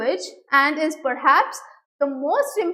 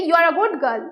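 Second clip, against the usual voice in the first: firmly raised voice, a teacher's demonstration; faster than usual. Shown as a demonstration. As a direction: raise your voice a little on the praise. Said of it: "if I raise my voice and say".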